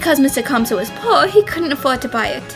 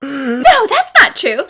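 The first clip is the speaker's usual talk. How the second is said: overacted anime dub; 2 semitones higher, 5 dB louder, much slower than usual. Protesting loudly.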